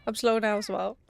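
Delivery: speaking with hiccups; hiccuping through the words. Real, not acted. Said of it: "I have hiccups".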